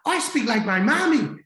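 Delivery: high, loud child voice in an attempted Irish accent; Irish-accented little girl. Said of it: "like, with an Irish accent".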